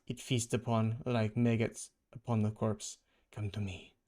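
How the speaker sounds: mild villain intoning his ritual; Kraven's voice. Acted. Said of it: "That's Craven's voice".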